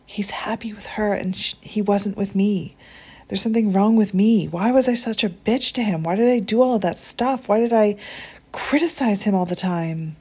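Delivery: rising, breaking distress, high and loud; tearful and upset. Acted. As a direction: whisper first, then burst out crying. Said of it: "her eyes filled with tears".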